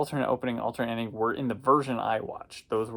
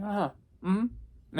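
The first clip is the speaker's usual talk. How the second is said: skeptical murmur; 8 semitones higher, 4 dB quieter, slower than usual. Retold or imitated. Woman's unconvinced reply.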